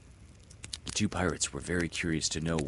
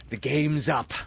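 raised, passionate captain's cry; Hook crying out; 8 semitones higher, 4 dB louder than usual. Acted. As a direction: defeat spoken with feeling. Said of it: "he cried".

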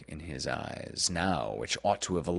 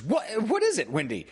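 high, startled question; startled concern; 4 dB louder than usual. A narrator's reading. Peter reacting to Wendy's screech, high and startled. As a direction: blurt it out in alarm, pitch jumping then dropping.

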